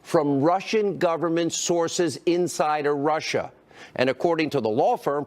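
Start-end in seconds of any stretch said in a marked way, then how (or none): 0.0-3.5 slow, deliberate emphasis on each word; measured, word-by-word news delivery; really slow. Real, not acted. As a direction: spell it out slowly for the audience. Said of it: "let's do this really slow".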